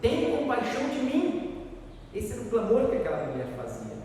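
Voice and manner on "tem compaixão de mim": raised, high-pitched imitated plea; retold crying out. Preacher voices a supplicant clamouring before Jesus, retold high cry. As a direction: call out for mercy, high all through. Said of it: "chegou diante de Jesus e clamou".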